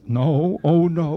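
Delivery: imitated moaning. Tenor mimicking the composer at rehearsal, moaning and groaning. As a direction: mimic a composer groaning at what was sung. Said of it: "He moans and groans".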